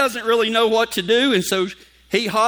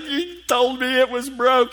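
put-on whiny kid; 5 semitones higher, slower than usual.

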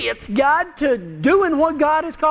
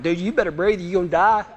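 cowboy giving CPR; 5 semitones lower, faster than usual. Acted. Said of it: "cowboys give C P R like".

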